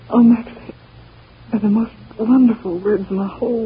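joyful cry. Acted. Joy at the verdict.

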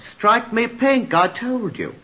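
high, drawn-out mock exclamation; imitating the dead man's catchphrase. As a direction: cry it out slowly, hammed-up. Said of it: "made his classic suggestion".

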